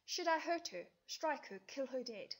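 high, loud, incredulous Lysander; outraged Lysander. Acted. Lysander scoffing at Demetrius, loud and incredulous. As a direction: fling the questions back in disbelief.

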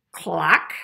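loud, rising cluck; hen cluck. Acted. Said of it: "And the hen said".

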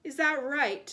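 loud, high, rough challenge. A narrator's reading. Frank challenging the cold voice, loud and rough. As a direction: fire back roughly. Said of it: "said Frank roughly".

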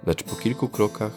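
usual speaking voice

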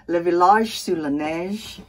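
slow, careful amateur French accent; awful French accent. Real, not acted. Stitcher naming her new French pattern for viewers, awful French accent. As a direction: read the title in an earnest, imperfect French accent. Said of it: "forgive my awful French accent".

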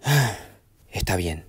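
soft, resigned acceptance; calmer voice. A narrator's reading. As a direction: give in quietly. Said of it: "le dice con una voz más calmada".

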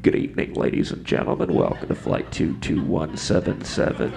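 low, slow, loud bored drawl; bored redneck pilot. Retold or imitated. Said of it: "he always sounds like a really bored redneck".

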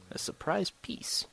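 breathy hushed aside, slow; hushed surprise. Pretend. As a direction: whisper it like a secret find. Hushed aside while mining.

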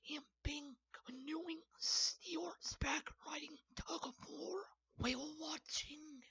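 high, eager listing; excited kid voice. Acted. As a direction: rattle off each thing thrilled. SpongeBob excited at camp.

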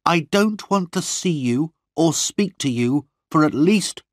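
high, restrained angry voice; stern, high-pitched dismissal; quiet anger. A narrator's reading. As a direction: banish a servant with controlled anger. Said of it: "her voice full of quiet anger".

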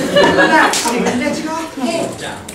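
camp pantomime dame. Acted.

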